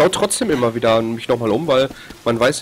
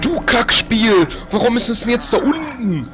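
much higher, drawn out slowly; frustrated cursing; 10 semitones higher, slower than usual. Real, not acted. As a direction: curse the game, slow and bitter. Cursing the game after dying.

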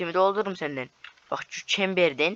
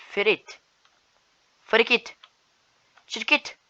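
teasing name-calling; 6 semitones higher, 3 dB louder, slower than usual. Real, not acted. Mocking an opponent's name.

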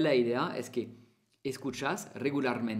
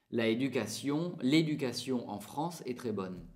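French sentence. Shown as a demonstration. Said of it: "escuchas a alguien que dice".

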